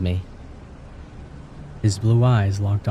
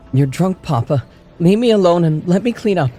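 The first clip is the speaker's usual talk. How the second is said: higher, louder defiant shout; shouting back; 10 semitones higher, 4 dB louder than usual. A narrator's reading. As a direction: yell back at the father. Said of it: "I shouted back".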